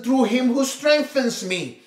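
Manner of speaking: slow weight on "through him who strengthens me"; slow emphasis on "through him"; stress on through him. Shown as a demonstration. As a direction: linger on "through". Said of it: "others put emphasis on".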